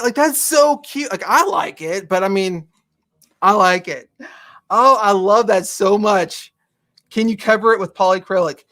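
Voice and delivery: usual speaking voice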